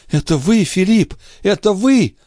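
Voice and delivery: high joyful cry of recognition; exclaiming. A narrator's reading. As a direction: burst out with joy at the sight of him. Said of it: "воскликнула она".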